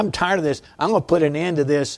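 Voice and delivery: put-on exasperated, fuming, fed-up and angry. Retelling what you yelled before the phone rang, retelling a yell. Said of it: "And so I'm yelling".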